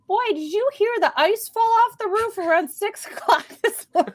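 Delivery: curious granny, lightly done; lightly voiced grandmother. Grandmother asking about the noise.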